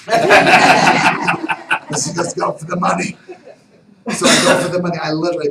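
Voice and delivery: big laugh through the words; laughing loud. Retold or imitated. Retelling the raffle to the host, laughing loudly.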